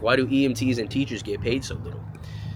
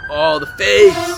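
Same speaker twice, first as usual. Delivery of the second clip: odd voice; 9 dB louder, much slower than usual. Pretend. Sudden put-on exclamation.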